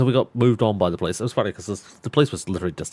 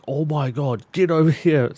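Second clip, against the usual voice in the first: exasperated shout; 7 semitones higher, 5 dB louder than usual. Retold or imitated. Cop shouting after him.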